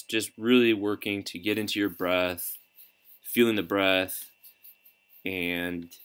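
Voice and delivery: unhurried guidance with long pauses between phrases; calm, measured coaching through breath and body scan; guided meditation. Real, not acted. Coach leading listeners through breathing and a body scan, calm meditation guidance.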